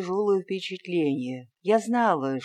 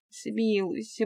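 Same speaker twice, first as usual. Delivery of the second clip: begging for mercy; 5 semitones higher, 3 dB quieter, slower than usual. A narrator's reading. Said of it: "продолжал просить Фёдор".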